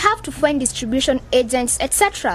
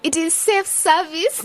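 mocking; 4 semitones higher, slower than usual. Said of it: "don't make fun of her".

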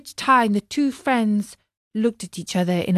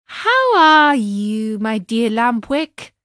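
sly smiling greeting; 4 dB louder than usual. Acted. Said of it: "he asked with a smile".

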